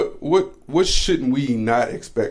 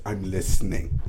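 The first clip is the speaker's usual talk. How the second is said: a light mimic of the partner's flat tone; mild mock of her reply; imitating partner; 3 semitones lower than usual. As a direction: copy how she said it, lightly. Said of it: "when you say it like that".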